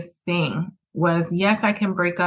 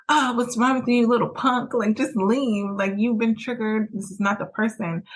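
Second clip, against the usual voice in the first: scolding herself; 5 semitones higher than usual. Retold or imitated.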